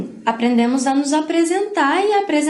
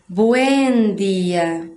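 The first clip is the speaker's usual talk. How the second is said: very drawn-out, lower-pitched "Buen día"; slow demonstration; 4 semitones lower, much slower than usual. Shown as a demonstration. Teacher shows class the other greeting form, slow demonstration. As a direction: stretch "Buen día" slowly and low. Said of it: "vão encontrar assim".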